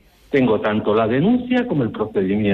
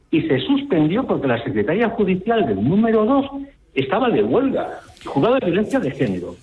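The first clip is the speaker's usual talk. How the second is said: raised, heated indignation; higher, outraged and insistent; indignant; 7 semitones higher than usual. Real, not acted. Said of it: "estoy indignado con lo que estoy escuchando".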